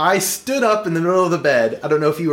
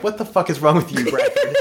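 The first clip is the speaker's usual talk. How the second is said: exasperated at a friend; incredulous. Retold or imitated. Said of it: "was like".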